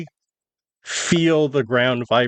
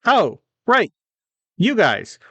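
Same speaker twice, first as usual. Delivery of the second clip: higher-pitched halfling private; puzzled soldier questioning strangers, voice pitched up; young soldier; 9 semitones higher than usual. Acted. Private questions travellers on the road, higher-pitched soldier voice. Game master plays private.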